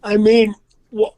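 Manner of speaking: muffled, talking into his hand; hand over mouth. Real, not acted. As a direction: speak from behind your hand. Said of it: "Don't talk in front of your hand".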